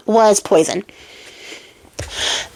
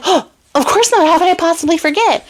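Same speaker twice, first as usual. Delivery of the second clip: much higher, gushing reassurance; gushing queen; 8 semitones higher than usual. Retold or imitated. Queen to dog about Charming, high gushing. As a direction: gush it sweetly up high. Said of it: "she's like".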